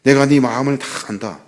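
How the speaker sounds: put-on soft, hushed voice of God consoling a crying child; tender consoling whisper-soft voice; gentle comfort. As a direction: quietly soothe someone who can't stop weeping. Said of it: "위로해 주신대요".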